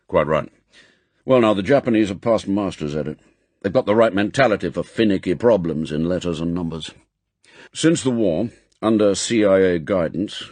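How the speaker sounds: fast, firm briefing; M, brisk chief. Acted. Chief briefs agent on new posting, brisk and firm. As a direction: rattle off the orders. M explains.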